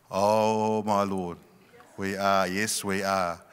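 slow, dazed realization; stunned disbelief. Retold or imitated. Couple staring at the positive test, slow and stunned. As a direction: let it sink in slowly, awed. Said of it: "we went into shock".

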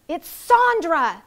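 high, loud, slow English-free shriek of the name; sudden scream. Acted. A fan spotting the star, screaming her name. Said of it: "someone suddenly screamed".

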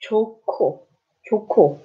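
좋고 with the K turned into a strong K; 좋고, breathy K; aspirated K. Shown as a demonstration. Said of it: "sound like 기억".

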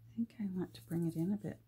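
whisper. Real, not acted. Unvoiced fast whisper while working.

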